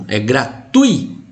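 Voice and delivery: gratui slowed, tui kept in one syllable; gratuito split. Shown as a demonstration. Teacher correcting how gratuito is divided, slowly. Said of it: "porque se fosse tui".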